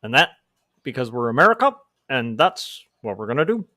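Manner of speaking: halting, measured presidential cadence, lightly imitated; Obama impression. Comedian failing at Obama, halting half-hearted impression. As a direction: break it up like a careful orator. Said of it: "like, a slow cadence".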